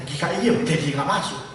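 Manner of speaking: mock the denominations with a laugh; playful gatekeeper. Acted heaven gatekeeper questioning souls. (penjaga surga yang bercanda sambil tertawa)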